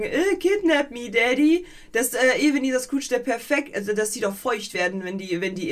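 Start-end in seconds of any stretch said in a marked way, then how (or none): 0.0-1.6 mock TikTok tease. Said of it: "immer sagen".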